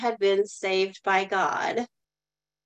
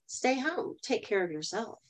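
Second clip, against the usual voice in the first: much softer, gentle coaxing; 9 dB quieter than usual. Retold or imitated. Inner voice softly urging her to stay home, gentle hush. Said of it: "this soft, gentle voice says".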